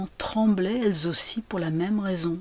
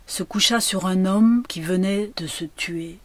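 plain reading voice

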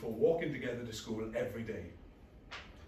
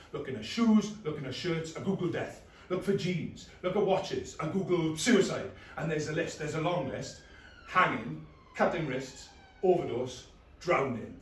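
agitated, rising; 3 semitones higher, 6 dB louder than usual. Acted. Agitated spiralling list.

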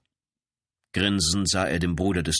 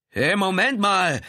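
high, loud, slow outcry; crying out; 13 semitones higher, 6 dB louder, slower than usual. A narrator's reading. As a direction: yell in protest as cuffs close. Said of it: "rief der Mann".

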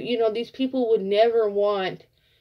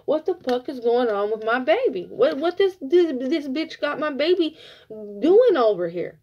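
lightly voiced mama, higher and exasperated; mother asking what's wrong with her son, mildly voiced; worried mama; 4 semitones higher than usual. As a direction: play his mother fretting over her baby. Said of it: "I hear his mama".

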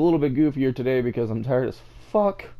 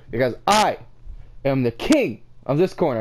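yelling. Acted. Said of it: "when I yell like that".

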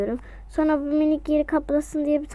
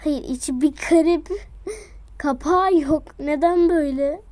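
laughing; 3 semitones higher than usual. Real, not acted. Laughing at odd item.

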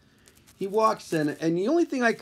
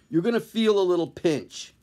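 menacing pinch line; 3 semitones higher than usual. Pretend. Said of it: "before I punch him in the face".

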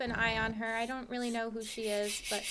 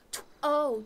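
shocked whisper. Real, not acted. Shocked at licence price.

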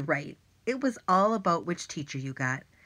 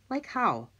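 whisper; 6 semitones higher than usual. Acted. Irwin's skeptical question.

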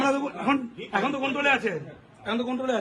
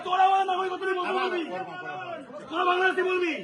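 high-pitched heated quarrelling; real indignant outburst; angry challenge; 5 semitones higher, 4 dB quieter than usual. Real, not acted.

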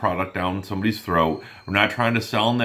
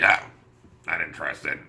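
dismissive mumble; 8 semitones lower than usual. Retold or imitated. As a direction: mumble it like you couldn't care less. Customer brushing off the call.

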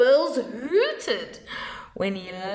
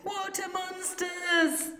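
cried; 11 semitones higher, 3 dB quieter than usual. A narrator's reading. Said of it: "one cried".

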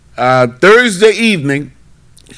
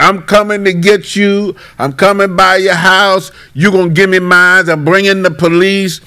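retold threats; 5 semitones higher than usual. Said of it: "Then he start threatening".

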